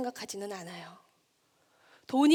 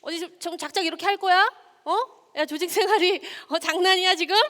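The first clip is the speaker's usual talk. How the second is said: a moderately loud, higher berating manager; scolding boss; 5 semitones higher, 3 dB louder than usual. Acted. Lecturer playing a boss scolding manager Kim, moderately loud. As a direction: chew out the employee like a fed-up boss. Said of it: "뭐 이런 말들 있잖아요".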